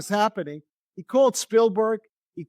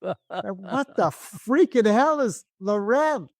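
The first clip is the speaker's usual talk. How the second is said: slow, drawn-out baffled outrage; a slow, stunned what-the-hell; stunned disbelief; much slower than usual. Retold or imitated. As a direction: spell out each word in disbelief. Inner outburst at the brand name.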